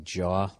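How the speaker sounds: "jaw" with an open Boston aw; rounded vowel in "jaw". Shown as a demonstration. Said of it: "just say, like".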